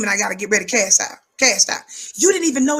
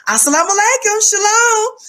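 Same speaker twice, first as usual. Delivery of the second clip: high, louder sing-song greeting; sweet greeting; 9 semitones higher, 5 dB louder than usual. Retold or imitated. Opening her show to viewers, sweet high greeting. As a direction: greet them sweetly, pitched way up. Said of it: "you come out so sweet and kind and soft".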